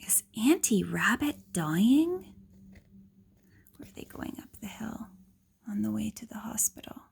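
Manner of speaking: hushed, quick whispered questions; worried whisper. Acted. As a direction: whisper your worry fast.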